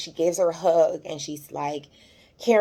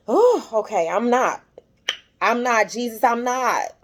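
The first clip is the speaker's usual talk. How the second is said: real effort not to cry, voice pitched up; fighting back tears; 5 semitones higher than usual. Real, not acted. Recapper moved by the mother's story, fighting back tears. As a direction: hold the tears back, catching yourself. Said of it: "trying my hardest not to cry".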